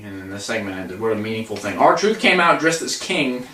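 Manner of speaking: normal talking voice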